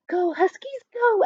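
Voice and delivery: high excited cheering shout; crowd-style shout. Acted. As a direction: cheer the team on from the field. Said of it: "Ashley shouted".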